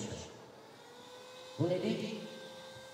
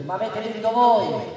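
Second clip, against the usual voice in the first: booming balcony speech; 4 semitones higher, 8 dB louder than usual. Real, not acted. Rally speech to the crowd.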